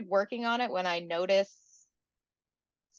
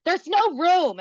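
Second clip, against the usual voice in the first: mock curt reply; 6 semitones higher, 7 dB louder, slower than usual. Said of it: "And she was like".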